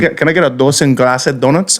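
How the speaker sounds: lightly put-on Spanish accent, "glacid" in two syllables; imitated Spanish accent. Spanish-speaking customer ordering at the drive-thru, light imitated Spanish accent. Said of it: "if Spanish is their first language".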